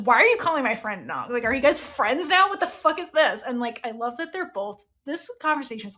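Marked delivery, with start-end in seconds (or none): 0.0-3.4 mock jealous outburst, rising higher toward the end; flipping out. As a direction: retell a jealous friend snapping, half-hammed. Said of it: "Prowl flips out".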